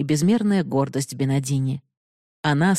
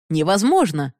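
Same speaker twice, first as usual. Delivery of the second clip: mild cry of disbelief, a bit louder; shout; 2 semitones higher, 3 dB louder than usual. Acted. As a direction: reject it outright, sharply. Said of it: "крикнул Бихари". (громкое восклицание «Невозможно!» с падением)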